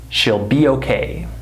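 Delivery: SHE'LL reduced to "shill"; weak SHE'LL, no EE sound; short I contraction. Shown as a demonstration. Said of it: "the way I'm pronouncing it".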